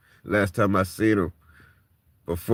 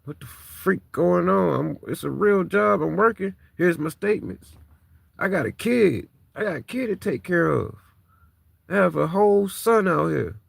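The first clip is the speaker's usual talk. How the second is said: raised, frustrated outburst; venting; 8 semitones higher than usual. Retold or imitated. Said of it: "I'm like".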